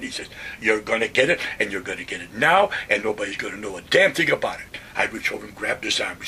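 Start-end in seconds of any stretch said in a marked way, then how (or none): 0.6-4.8 louder menacing threat; retold threat. Hell's Kitchen guy pinning the sergeant to the wall, louder threat. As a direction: lean in and threaten him.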